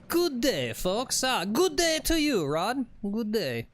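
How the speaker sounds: high, sing-song mock Canadian accent. Co-host greets viewer Rod back, hammed-up Canadian accent. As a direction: ham up a cheery Canadian greeting. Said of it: "Is that your Canadian accent?".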